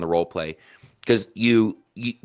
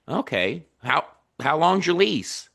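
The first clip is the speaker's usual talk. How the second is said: higher-pitched interested follow-up; curious; 5 semitones higher than usual. Shown as a demonstration. Coach models a follow-up question to the renter, curious. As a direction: keep probing with curious interest. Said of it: "start being curious".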